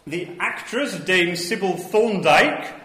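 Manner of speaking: slow, grand newsreel announcer; newsreel narrator. Pretend. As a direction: announce it like old Pathé footage. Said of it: "my Pathé newsreel voice".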